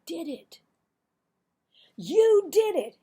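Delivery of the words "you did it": high, loud shocked cry; startled little boy. Acted. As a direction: gasp it out in disbelief.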